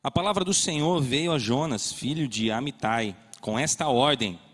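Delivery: steady, solemn Bible reading; scripture reading. Acted. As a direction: read the passage to the church. Reads Jonah chapter aloud.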